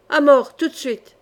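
loud mob cry for blood; hurlement de bande. A narrator's reading. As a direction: call out as an enraged gang. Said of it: "hurla la bande cravachée par ces paroles". (cri fort de meute en colère)

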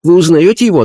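high, earnest medium voice; a spirit medium describing a vision; seance medium. Acted. (голос медиума на сеансе)

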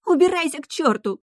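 very high panicked shriek. Acted. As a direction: scream him out of the room. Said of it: "визжала Эрика".

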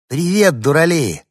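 put-on high, loud girlish hello; cheery greeting. A narrator's reading. Girl greets the lost dog and lamplighter, cheerfully loud. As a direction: call out to the dogs cheerfully.

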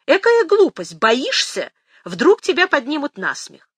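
scolding grandmother. Acted. Grandmother scolding, high, loud.

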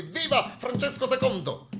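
grido festoso, acuto e lento; grido di folla. A narrator's reading. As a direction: gridalo come la folla in festa. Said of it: "al grido di". (folla che acclama il re, grido festoso)

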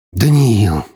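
loud, slow exasperated groan of a line; exasperated brother groaning over the phone. Acted. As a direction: moan it out in despair. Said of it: "простонал его брат".

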